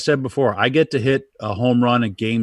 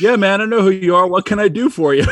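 flustered fan; 9 semitones higher, 5 dB louder, faster than usual. Retold or imitated. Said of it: "I go".

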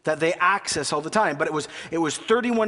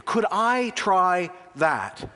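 polite Canadian; slower than usual. Retold or imitated. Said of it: "There's our phrase".

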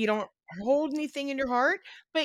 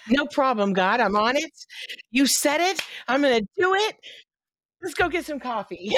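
mock breezy agreement; 4 semitones higher than usual. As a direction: toss it off like an easy errand. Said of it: "S1 jokes about compliance".

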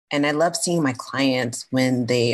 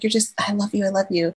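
gushing fan; 5 semitones higher than usual. Retold or imitated. Fan gushing to comedian, retold.

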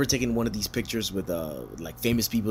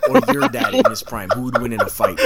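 laughing dare; 7 dB louder than usual. Retold or imitated. Daring Milky about whose dad wins, laughing. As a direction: taunt like a kid, cracking up.

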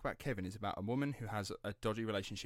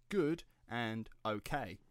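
slow quoted phrase; slower than usual. Retold or imitated.

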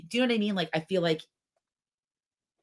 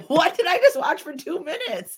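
loud, high, laughing what; half-laugh at the absurd scene; laughing disbelief; 12 semitones higher, 9 dB louder than usual. Retold or imitated. Laughing retelling her baffled reaction to the scene. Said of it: "and I'm like".

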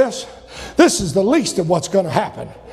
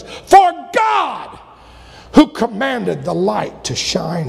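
building scripture reading, preaching; reading scripture aloud. Acted. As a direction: read scripture with rising preacher force.

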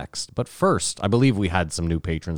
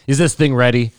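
diva voice; 3 semitones higher, 6 dB louder than usual. Retold or imitated. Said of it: "saunters in like a diva".

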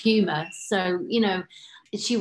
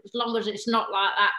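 louder, slowing into an indignant put-on voice; Janet Street Porter; 5 semitones higher, 5 dB louder than usual. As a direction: grumble like a brash celebrity. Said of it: "And she went".

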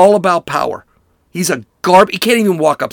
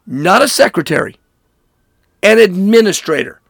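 angry rant; 3 semitones higher than usual. Real, not acted. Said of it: "this makes me angry".

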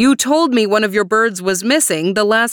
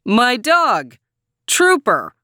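mild yell, pitched up; 5 semitones higher, slower than usual. A narrator's reading. Man introducing his dog to deaf neighbor, mild yell. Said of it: "he yelled".

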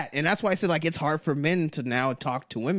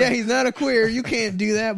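higher, louder hammed-up protest; mock outrage; 8 semitones higher, 4 dB louder than usual. Echoing his friend's joke in hammed-up outrage. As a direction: play the offended fan, overdone.

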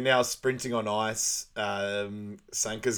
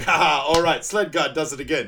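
louder, higher cocky crowing; gloating laugh-talk; 4 semitones higher, 8 dB louder than usual. Retold or imitated. Sanka bragging to the team after the fight, cocky and loud. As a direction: crow about the win.

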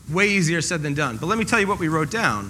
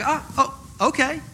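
caught off guard; 5 semitones higher, 3 dB quieter than usual. Retold or imitated. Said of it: "And they're like".

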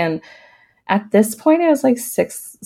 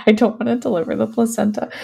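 mock scared plea; 3 semitones higher, faster than usual. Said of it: "I'm like".

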